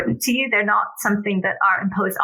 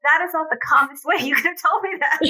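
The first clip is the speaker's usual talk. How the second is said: imitating child; 6 semitones higher than usual. Child correcting mother.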